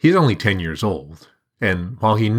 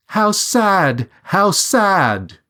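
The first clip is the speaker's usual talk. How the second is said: much higher, sing-song bird call; bright chirping bird voice, louder; bird's high cry; 12 semitones higher, 4 dB louder, much slower than usual. A narrator's reading. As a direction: cry it out like a small bird overhead. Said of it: "and cries again".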